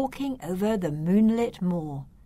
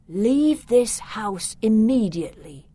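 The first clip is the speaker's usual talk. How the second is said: urgent warning; 4 semitones higher, 7 dB louder than usual. Acted.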